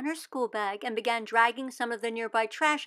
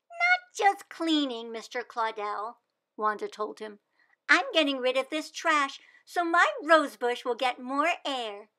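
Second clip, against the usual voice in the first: put-on earnest little girl sure of her plan; hopeful child; eager young Wanda; 2 semitones higher, 4 dB louder than usual. Wanda explains to Claudel.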